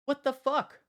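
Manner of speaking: high, loud disbelief; outraged what; shocked. Real, not acted. Shocked reaction to clip.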